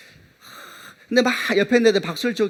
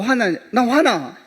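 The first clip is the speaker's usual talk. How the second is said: mock angry; 6 semitones higher, 5 dB louder, much slower than usual. Pastor retells his anger.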